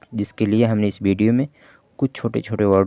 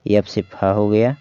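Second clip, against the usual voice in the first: slow sounding out. Shown as a demonstration. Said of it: "उसी तरह से पढ़ा जाएगा".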